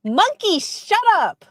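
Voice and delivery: high, loud, laughing protest; laughing outburst. Real, not acted. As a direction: yell it while laughing.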